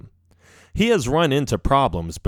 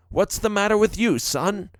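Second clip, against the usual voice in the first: concerned father; 9 semitones higher than usual. A narrator's reading. Father asks his downcast son.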